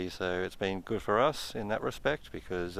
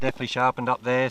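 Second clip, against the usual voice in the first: excited; 6 semitones higher, 6 dB louder, faster than usual. Real, not acted. Signal sharpens, hoping for gold.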